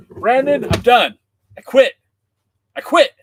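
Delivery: loud, high exasperated shout; loud fake outrage at a friend's prank; mock quitting. Real, not acted. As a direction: throw up your hands at Brandon.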